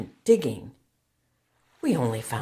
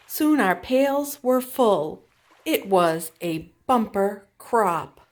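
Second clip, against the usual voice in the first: excited, slowing; 6 semitones higher, 5 dB louder, slower than usual. A narrator's reading. Triumph after the find.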